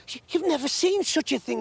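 high, stammering rush of news; breathless excitement. A narrator's reading. Kitty rushing up to the others, breathless and excited.

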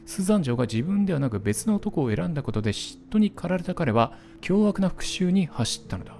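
steady storyteller reading; 物語を語るように朗読; narration read. Acted. Reads ending text aloud.

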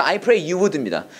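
drawn out very slowly, word by word; slow model phrase. Shown as a demonstration. Teacher modelling the prayer phrase for students, very slow. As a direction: spell it out slowly for the class. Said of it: "영어로 얘기할 때는".

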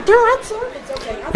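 hushed, almost whispered comfort; calm a scared baby animal in a whisper; soothing hush. Acted. Soothing the frightened puppet.

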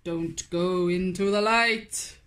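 a hint of a stern father warning; hushed fatherly caution; dad's warning. A narrator's reading. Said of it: "his dad warned".

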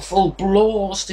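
English long "ah" in "blast"; mock-English "blast" with a drawn-out broad vowel; English pronunciation. Shown as a demonstration. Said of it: "if you want to be English about it".

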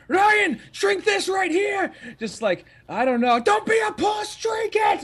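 hammed-up Irish drinker pushing a drink; pushy drinking buddy. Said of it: "they are aggressively friendly".

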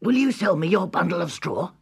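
high, polite little pig voice; a small pig asking politely. A narrator's reading. First pig asks straw man.

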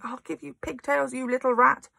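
high furious yell. Acted. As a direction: yell it while spinning. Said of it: "the Trunchbull was yelling".

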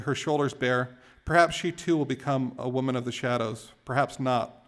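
measured, emphatic poetry recital; poem reading. Acted. Poet reads Hopper poem to a crowd, measured recital. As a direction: recite it phrase by phrase, leaning on key words.

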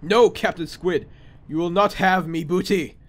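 lightly voiced pirate defiance; a hint of buccaneer; failing pirate voice. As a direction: defy the squid as a half-hearted pirate. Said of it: "trying to talk in a pirate voice".

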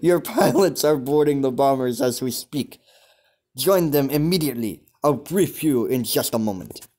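put-on light German officer accent giving orders; lightly put-on German accent, commanding. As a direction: order the pilot out in a stereotyped German voice. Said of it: "I'm trying to do a German accent".

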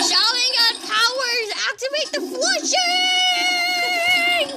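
high, slow dramatic incantation; anime battle cry. Pretend. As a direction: proclaim it like an anime hero.

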